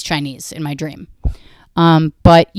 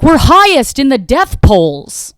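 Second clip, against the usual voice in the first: higher, louder, slow boastful Trump parody; mock Trump; 7 semitones higher, 9 dB louder, slower than usual. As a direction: brag like a proud president. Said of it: "you watch Trump and he's like".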